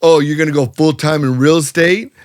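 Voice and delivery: quick, mocking smart-ass question; retold smart-aleck jab. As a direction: imitate a smug doubter needling someone. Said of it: "real smart ass like".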